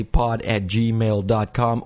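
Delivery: slow, deliberate pod at gmail dot com; slow, careful spelling. Shown as a demonstration. Host repeating his email address slowly for listeners. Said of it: "That's cast with a K".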